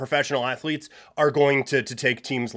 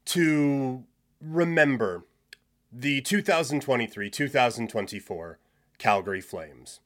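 mock solemn eulogy. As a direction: intone it like a pretend funeral. Mock funeral opening.

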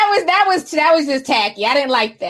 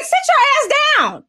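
sassy dismissal; 11 semitones higher than usual. Real, not acted. Telling derailers off.

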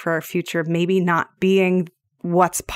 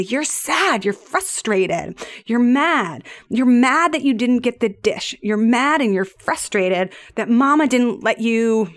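higher parent voice calmly labeling his emotions; naming feelings to a toddler; 3 semitones higher than usual. Retold or imitated. Mother naming her frustrated son's feelings during a tantrum, higher and sympathetic. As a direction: mirror a tantrum back to a small child. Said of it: "and mad, I say".

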